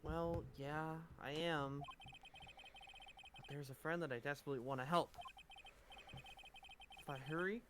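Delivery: a hint of a young anime protagonist; Makoto Naegi voice. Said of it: "talking in goddamn Makoto Naegi voice".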